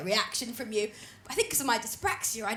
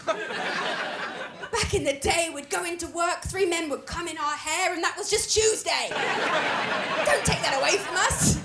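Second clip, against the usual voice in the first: put-on French accent; 3 semitones higher, slower than usual. Older French woman voiced.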